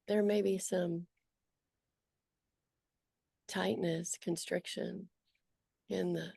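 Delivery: unhurried guiding voice with long pauses; guided meditation. Acted. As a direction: gently lead them through noticing, leaving long silences.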